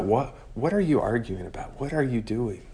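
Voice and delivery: soft, searching questions; gentle questioning. Acted. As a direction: ask it quietly, drawing them out. Applying question to listener, softly.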